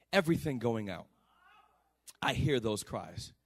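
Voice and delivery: slow, low, with long pauses; solemn preaching. Real, not acted. Preacher tells the congregation God hears the cast out, solemn preaching. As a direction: let each phrase sink in, slowly.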